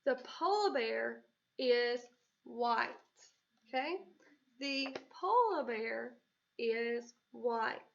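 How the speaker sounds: slow, even statement. Shown as a demonstration. Teacher modelling a statement, slow and even. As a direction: read it out slowly as a plain fact. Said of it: "This is just a direct statement".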